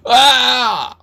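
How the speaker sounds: high-pitched acted cry of alarm; acted scream. Someone falls from a boat in the dark, high acted scream. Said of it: "소리 지르는 것도 들렸습니다".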